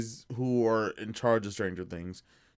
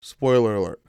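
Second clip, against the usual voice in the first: announcing loudly; 7 dB louder than usual. Real, not acted. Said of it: "I gotta say it a couple times".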